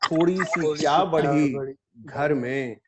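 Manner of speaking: measured ghazal recital with held pauses; mushaira recitation. Acted. Poet opens a ghazal before appreciative listeners, mushaira recitation. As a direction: recite the couplet phrase by phrase.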